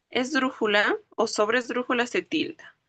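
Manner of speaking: normal talking voice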